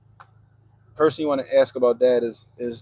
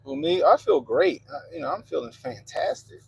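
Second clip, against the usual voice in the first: flat monotone voice; deadpan, no lift at all; 10 semitones higher than usual. Real, not acted. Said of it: "don't let the monotone fool you".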